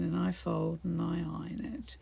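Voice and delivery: soft whisper, breathy and unvoiced; whispered aside. Real, not acted. Chatting to viewers while crafting, whispering. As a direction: drop to a whisper mid-sentence. Quiet aside about chores.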